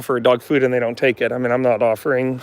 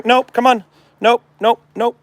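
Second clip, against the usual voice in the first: firm nope; 9 semitones higher, 4 dB louder than usual. Real, not acted. Stopping dog slipping collar.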